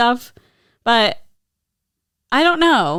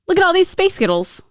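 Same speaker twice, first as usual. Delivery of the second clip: high, bouncy Scottish accent; 11 semitones higher than usual. Shown as a demonstration. Host demos the Scottish mishearing in a Scottish accent. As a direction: sing it out in a Scottish lilt. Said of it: "is Space Girls in Scottish".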